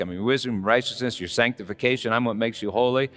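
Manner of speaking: preacher voicing Jesus, building up; building fervor. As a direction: preach it rising to a peak.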